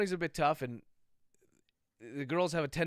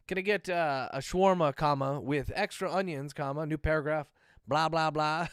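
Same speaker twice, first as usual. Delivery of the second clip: dictating; 3 dB louder than usual. Pretend. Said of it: "I'm gonna do everything like that now".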